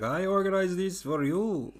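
mock-proud, as if he planned the fireworks; joking boast. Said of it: "made a little joke where he was like".

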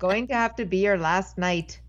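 lightly botched Irish lilt with some Scottish; bad Irish accent. Irish boss fires new waitress, wobbly Irish accent. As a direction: attempt an Irish accent that wanders. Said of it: "that was a little bit of Scottish".

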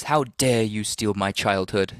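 put-on slow, half-hearted British accent; a light stab at a British accent, slowed down; attempted British accent. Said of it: "that was my attempt at a British accent".

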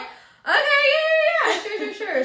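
high, laughing nervous agreement. Retold or imitated. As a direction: laugh it off, going along. Retold awkward agreeing in class.

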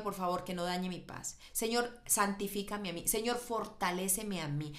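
gentle mock prayer of acceptance; surrendering prayer.

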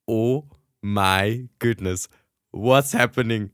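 slow, stretched-out inner exclamation; freeze, then take it in slowly; stunned. Retold or imitated. Thinking as a stranger hugs her, stunned. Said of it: "wirklich so einen Moment da gsi".

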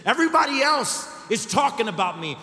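loud, high, pleading outcry; desperate plea. Retold or imitated. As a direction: cry out that you are worth something. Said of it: "This is what she was saying".

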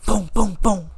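cars booming past, voiced by mouth; imitated car noise. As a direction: imitate cars going by in punchy beats. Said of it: "She heard them cars going".

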